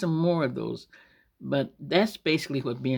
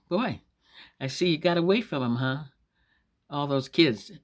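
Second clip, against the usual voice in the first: raised, mock-impressed jibe; poking fun. Lady to a mother of six, poking fun. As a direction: tease under cover of friendly chat. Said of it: "She was trying to poke fun".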